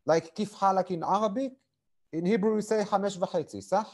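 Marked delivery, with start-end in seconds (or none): 0.4-0.9 "Kif Halak" with Arabic throat consonants; guttural Het and Ain. Shown as a demonstration. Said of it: "you also speak with Het and Ain". 2.8-3.6 "Hamesh V'Chetzi" with pharyngeal Arabic-style Het; guttural Het and Ain. Shown as a demonstration. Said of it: "you also speak with Het and Ain".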